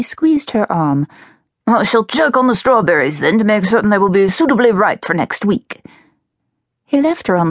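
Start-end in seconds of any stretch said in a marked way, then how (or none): 1.7-5.8 genial father character. Acted. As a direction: play the papa making plans. Narrator voices the father.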